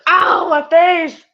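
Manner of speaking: loud, high, hammed-up wail; slow, over-acted yelp of someone hurt; mock cry of pain. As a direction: whine loudly as if just bonked. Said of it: "And it's like".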